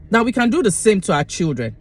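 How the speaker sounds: chewing gum, quick delivery. Real, not acted. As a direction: talk through chewing gum. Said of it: "I'm chewing gum".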